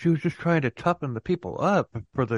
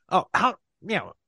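whiny complainer; 3 semitones higher than usual. Retold or imitated. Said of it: "get an email saying".

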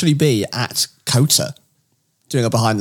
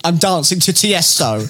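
slow, higher-pitched showing off; mock video boast; 5 semitones higher, slower than usual. Co-host filming himself for listeners, slow playful boast. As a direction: draw it out higher for the camera. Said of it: "I will video myself going".

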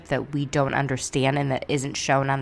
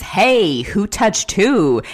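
imitated angry retort; 5 semitones higher, 7 dB louder, slower than usual. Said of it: "Brandi responds".

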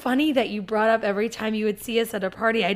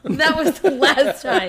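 laughing; 4 semitones higher, 5 dB louder, slower than usual. Real, not acted. Laughing at the story.

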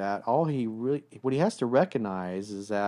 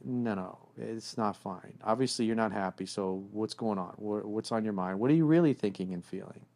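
gentle coaxing; 3 dB quieter than usual. Shown as a demonstration. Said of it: "you're like".

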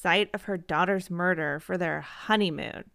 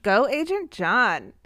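cheering; 4 dB louder, slower than usual. Real, not acted. Cheering the agent on.

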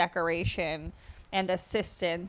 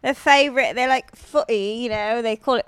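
mock British accent; 3 dB louder than usual. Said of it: "your British accent's making me".

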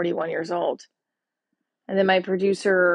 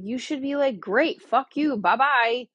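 higher, louder breezy kiss-off; mock dismissive brush-off; 6 semitones higher, 4 dB louder than usual. Quoting friends' advice to dump him, breezy and dismissive. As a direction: toss him away like friends would. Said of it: "And everybody's like".

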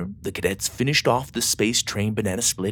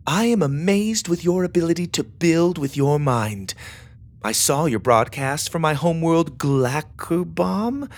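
reading a letter aloud; 8 semitones higher, 3 dB louder than usual. A narrator's reading. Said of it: "she began reading aloud".

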